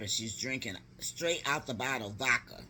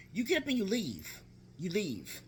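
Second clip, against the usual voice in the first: higher-pitched insistent order; emphatic urging; 8 semitones higher than usual. Retold or imitated. Aunt telling niece to get up and leave, emphatic. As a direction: drive the advice home.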